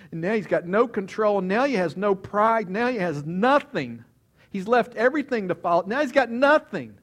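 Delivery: building loud, high, emphatic lament; impassioned preaching. A narrator's reading. Preacher telling how crushed Peter has lost everything, impassioned. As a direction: drive each loss home, rising in volume.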